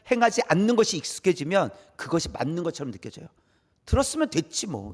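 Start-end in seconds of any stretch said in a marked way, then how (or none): 3.9-4.9 dismissive imitation. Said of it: "이런 거예요".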